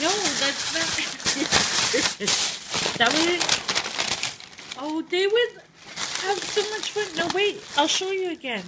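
high, giggly and loud; laughing through the words. Real, not acted. Laughing teasing husband.

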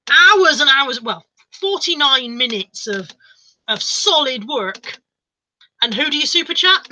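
drawn-out, hammed-up hard-done-by complaint; mock martyr. Streamer guilt-tripping viewers who funded Natalie instead, mock martyr. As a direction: lay it on thick, stretching the big words slowly.

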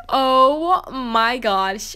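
slow, drawn-out imitated gasp of shock; shocked sister. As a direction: stretch it out like the big sister just saw a disaster. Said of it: "reaction was shocked".

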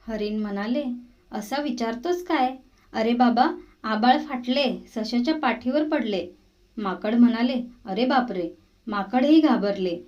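put-on lively read-aloud for little kids, each line set apart; gentle, expressive children's story narration; storytelling for children. A narrator's reading. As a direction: tell it like a bedtime tale to young listeners.

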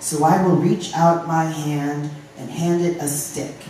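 deliberate spoken-word cadence; poem reading. Acted. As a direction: recite firmly, leaning on key words and stretching some phrases. Reads announced poem.

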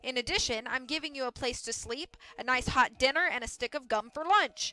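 lightly voiced boss, breezy and punchy; brusque mill boss. Mill boss closes the deal and leaves, brusque. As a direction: sell a bad deal with brisk confidence.

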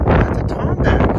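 high, loud thrilled exclaim; excited. Real, not acted. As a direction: burst out with delight at the find. Excited find of tomback button.

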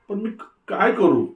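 panicked plea. A narrator's reading. Bride begging what she should do, high and frantic. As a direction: stammer it out in panic.

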